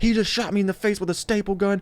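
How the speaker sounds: high, tearful, hysterical crying scream. Retelling a classmate's complaint to the teacher: imitating someone screaming and crying. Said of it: "she's losing it".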